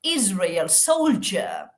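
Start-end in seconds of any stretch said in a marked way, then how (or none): 0.0-0.7 Israel with voiced Z; model pronunciation. Shown as a demonstration. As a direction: say Israel, IZ-ray-el. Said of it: "La Z representa la S sonora".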